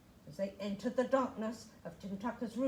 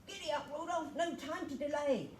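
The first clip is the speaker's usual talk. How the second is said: cheerful call; 5 semitones higher than usual. Acted. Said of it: "cried Santa".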